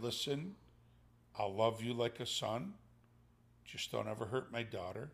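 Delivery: hushed, low, heartfelt plea; understated tender father, pausing between phrases; a little choked up. Retold or imitated. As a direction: speak softly with a touch of held-back emotion. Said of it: "I got a little choked up".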